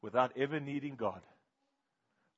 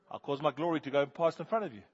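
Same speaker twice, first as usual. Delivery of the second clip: voice of God; 3 semitones higher, 7 dB louder than usual. Retold or imitated. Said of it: "And God says".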